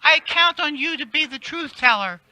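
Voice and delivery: raspy voice with eagle shrieks; a hint of shrieking diva; Kathy Griffin. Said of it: "Kathy Griffin voice".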